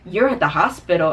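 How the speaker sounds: imitating his clueless question; mildly mocking puzzlement on "hospital"; baffled disbelief. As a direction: act as if "hospital" is a brand-new word. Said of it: "said the word hospital like he had never, ever heard".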